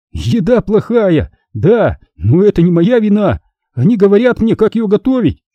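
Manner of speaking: a hint of a boy's amused protest. A narrator's reading. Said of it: "Потом он рассмеялся".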